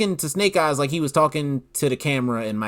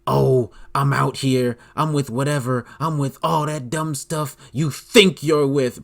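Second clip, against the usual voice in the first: mock tough talk; slower than usual. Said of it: "Tay-Roc said a bunch of stuff".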